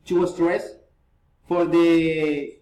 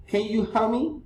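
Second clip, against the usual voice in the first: higher-pitched question climbing on "me"; rising intonation; 4 semitones higher, 3 dB quieter than usual. Shown as a demonstration. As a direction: lift "me" at the end.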